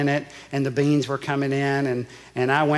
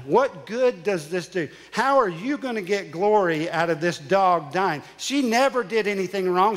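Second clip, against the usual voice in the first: raised, pleading questions thrown at God; a pastor reliving shouting at God, higher and pained; angry pleading with God; 5 semitones higher than usual. Retold or imitated. Pastor retelling his grief to the congregation, higher angry pleading. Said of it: "And I'm mad".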